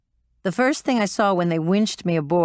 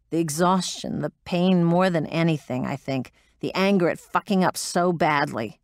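usual speaking voice

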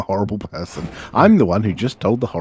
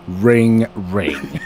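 deadpan sarcastic fake ringtone. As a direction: say it like a mocking human phone ring. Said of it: "to me sarcastically going".

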